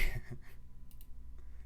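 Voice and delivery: quiet breathy wheeze of laughter; stifled laugh. Real, not acted. Streamer at a drawing gone wrong, stifled laugh. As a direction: laugh almost without voice.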